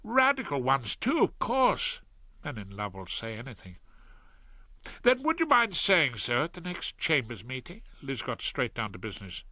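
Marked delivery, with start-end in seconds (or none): 0.0-3.8 voiced Claude. 5.0-7.8 voiced Liz.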